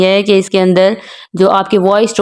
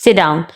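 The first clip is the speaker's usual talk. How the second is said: short order, Sit stressed and down lowered; falling command; 3 semitones lower than usual. Shown as a demonstration. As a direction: stress Sit, let down drop. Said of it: "सिट के ऊपर जो है ना आपने stress देना है". (Sit पर ज़ोर देकर आदेश)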